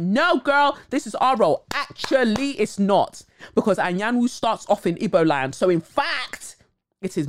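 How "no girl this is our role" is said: high, loud mock protest; sassy claim to the role, pitched way up; mock Black American claim. To the host, mocking Black Americans claiming the role. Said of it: "be like".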